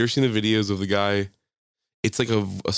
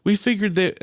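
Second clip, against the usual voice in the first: imitated neighbor; 6 semitones higher, 3 dB louder than usual. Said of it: "Hannah's like".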